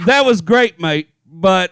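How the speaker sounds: mock-polite English accent with a trailing "but"; lightly put-on English courtesy. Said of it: "The polite English but".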